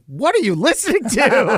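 put-on high, curious little kid voice; a young child asking, puzzled; kid's voice. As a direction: son asks dad about the loud record, curious high voice. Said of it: "He's like".

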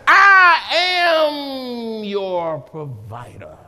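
slow, breaking with a cry; slow, tearful declaration; tearful proclamation. Acted. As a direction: let the voice crack on it. Climax of God's voice.

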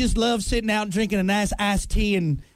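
lightly put-on Southern accent; leisurely mock Southern accent. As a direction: play a Southern belle. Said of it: "came back with a Southern accent".

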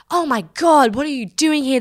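mock starstruck gushing; gushing fans. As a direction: imitate thrilled fans running into their idol. Retold excited fans greeting her.

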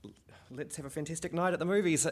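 loud, high, hammed-up New Zealand accent; terrible Kiwi accent. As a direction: announce a movie night in broad mock Kiwi. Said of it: "he does it in a Kiwi accent".

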